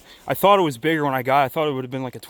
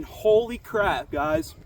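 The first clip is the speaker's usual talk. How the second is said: higher, slow and softer, gushing in disbelief; awed exclamations; 9 semitones higher, 6 dB quieter, much slower than usual. Real, not acted. Angler telling viewers about the trout, awed and excited.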